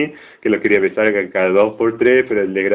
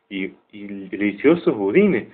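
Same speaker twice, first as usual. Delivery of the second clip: sarcasmo irónico; 3 dB quieter, slower than usual. Retold or imitated. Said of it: "discurso irónico y sarcástico".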